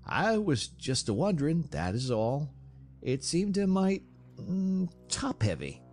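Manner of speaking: high, hesitant, apologetic wondering; meek backing-off. A narrator's reading. Onlooker explaining his doubt to Charles, meekly. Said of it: "hastened meekly to say".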